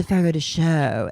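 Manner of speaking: pretentious. Pretend. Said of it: "you sound like you're so".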